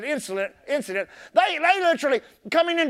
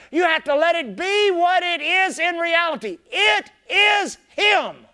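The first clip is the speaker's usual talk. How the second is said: preaching shout; 4 semitones higher than usual. Real, not acted. Preacher building to climax.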